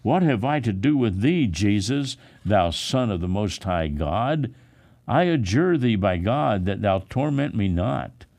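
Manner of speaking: high, loud desperate outcry; possessed man crying out loudly to Jesus. Acted. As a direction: cry out, begging not to be tormented. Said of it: "cried with a loud voice".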